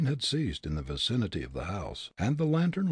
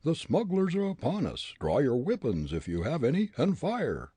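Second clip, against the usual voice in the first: urgent; 6 semitones higher than usual. Acted. Fritz urging Grogan to fight.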